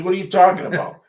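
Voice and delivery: lightly voiced scolding doctor; a hint of a doctor warning; stern doctor.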